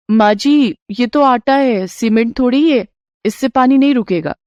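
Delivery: a hint of a doubtful young woman; doubting daughter-in-law. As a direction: object with mild disbelief.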